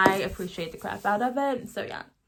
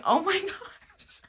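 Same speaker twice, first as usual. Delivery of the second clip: much higher, slowed-down gasp of disbelief, laugh breaking in; stunned oh my gosh; 9 semitones higher, slower than usual. Retold or imitated. Reviewer reliving the book's ending at work, stunned and higher. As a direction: replay the moment the ending hit you. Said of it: "But I was like".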